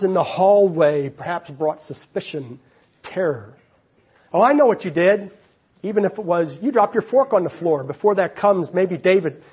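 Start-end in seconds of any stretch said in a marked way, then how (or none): 4.3-5.3 louder, higher accusation; accusing. Acted. Imagined whisperer confronting guilty David, accusing. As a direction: pounce on a guilty secret.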